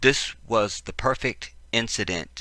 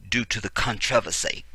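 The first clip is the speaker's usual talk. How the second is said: fake British accent. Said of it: "fake British accent".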